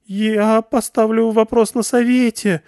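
high, slow, flustered bleat; humiliated girl bleating a weak threat; bleating confusion. A narrator's reading. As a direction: bleat it out, lost and deflated. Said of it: "растерянно проблеяла она".

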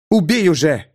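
mild growl of an archer whose voice trembles. A narrator's reading. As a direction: snap the order like a growl. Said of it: "рыкнула Чара".

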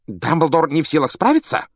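high rising anxious echo; Fudge agitated. A narrator's reading. Fudge echoing Malfoy, anxious disbelief. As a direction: repeat it in disbelief. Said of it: "Фадж разволновался".

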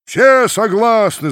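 slow, high, loud roar of assent; whole crowd agreeing at once; crowd shout. A narrator's reading. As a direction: roar it out together. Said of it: "закричала толпа".

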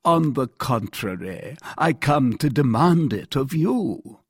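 composed, measured firmness; calm. A narrator's reading. Captain demanding justice of the king, calm. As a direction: state the demand evenly. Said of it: "replied Monsieur de Tréville calmly".

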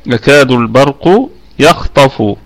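يكاد البرق يخطف recited slowly, carefully; slow recitation. Shown as a demonstration. Teacher reciting the verse for students. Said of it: "عندنا الخاء والطاء".

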